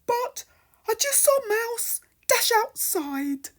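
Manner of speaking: a lightly voiced fish. Fish keeps talking.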